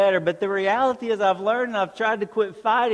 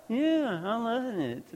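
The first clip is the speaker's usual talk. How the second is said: mock fake rejoicing; 5 semitones higher, 7 dB quieter than usual. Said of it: "it wasn't a Christian fake rejoicing".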